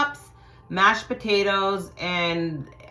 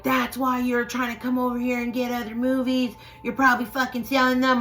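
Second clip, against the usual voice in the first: higher-pitched imitation of angry mom; retold angry yelling; 7 semitones higher than usual. Mom yelling at Roxanne over the movies, retold angry. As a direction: accuse like a fed-up mother. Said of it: "my mom's, like, yelling at her".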